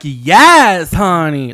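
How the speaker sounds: lightly sassy "Yes, honey" with a loud Yes; a hint of a gay man's drawl; drag-queen sass. Describing the singer's voice to the co-host, lightly sassy. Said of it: "she talks like that".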